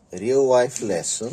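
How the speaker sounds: loud, slow announcement; emphatic. Real, not acted. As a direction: make it a big headline. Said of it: "announces lesson".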